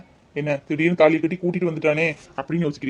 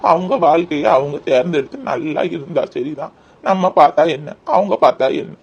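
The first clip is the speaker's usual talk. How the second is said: put-on kindly old man; 4 dB louder than usual. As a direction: give a grandfatherly blessing, stretching the words. Old man blesses the couple.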